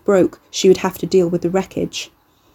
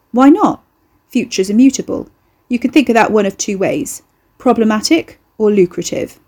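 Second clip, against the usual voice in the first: put-on breezy young bloke; 2 semitones higher, 3 dB louder than usual. Ricky breezy.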